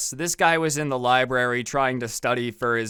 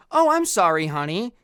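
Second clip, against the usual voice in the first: sweet mom; 3 semitones higher, 3 dB louder than usual. Retold or imitated. Mom answers rude son sweetly.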